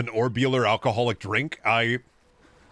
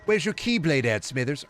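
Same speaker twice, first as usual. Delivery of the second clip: high-pitched villainous boss voice; cartoon boss, pitched up; Mr. Burns; 5 semitones higher than usual. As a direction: play a scheming old tycoon questioning his lackey. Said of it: "Burns ordering Smithers to".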